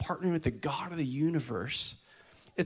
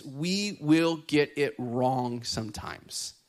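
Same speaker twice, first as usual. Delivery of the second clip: "will" dragged out and leaned on; slow emphasis; 3 semitones lower, much slower than usual. Shown as a demonstration. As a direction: say "we will get it wrong" slowly. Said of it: "As we're learning".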